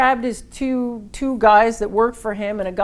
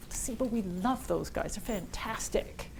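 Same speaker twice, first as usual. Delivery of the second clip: mock praise; 11 dB quieter, slower than usual. Pitch line mocking the rival.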